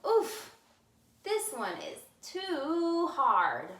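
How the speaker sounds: put-on high strained little girl voice; Goldilocks complaining. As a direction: groan it like a hard bed hurts. Goldilocks tests the big bed.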